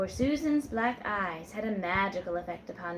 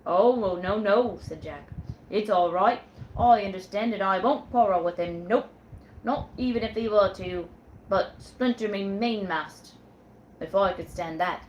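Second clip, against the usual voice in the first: put-on a firm old sailor, a bit louder; sailor Jack; 6 dB louder than usual. Sailor Jack tells Susan who's captain, firmly. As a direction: lay down the law like a ship's captain.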